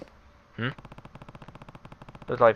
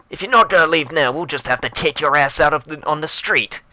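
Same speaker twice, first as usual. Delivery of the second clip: menacing thug; 4 semitones higher, 4 dB louder than usual. Acted. Reading thug's threats aloud.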